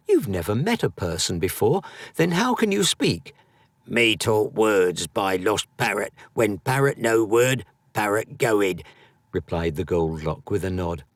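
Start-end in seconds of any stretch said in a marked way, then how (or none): 0.1-3.4 rising high with excitement; eagerly quick question; excited. Acted. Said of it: "Excited, Edwin was quick to respond". 3.9-8.8 lightly voiced little creature. Creature's broken speech.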